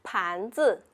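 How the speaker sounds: 盘 rising from low, 子 short and unstressed; second plus neutral tone. Shown as a demonstration. Teacher modelling second tone for learners, 盘 rising and 子 light. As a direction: say 盘子 with a rising first syllable, light ending. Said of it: "second tone plus neutral tone".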